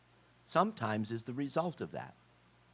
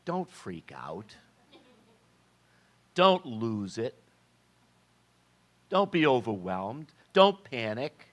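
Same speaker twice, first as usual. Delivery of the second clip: building reassurance; 2 semitones higher, 4 dB louder than usual. Acted. Peter's words in modern voice.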